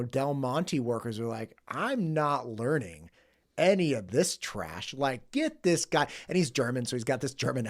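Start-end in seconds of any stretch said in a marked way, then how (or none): 1.7-6.1 slow, drawn-out mock refusal; stubborn refusal. Friend retelling old plant workers balking at tablets, stubborn refusal. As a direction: imitate workers digging in their heels, slowly.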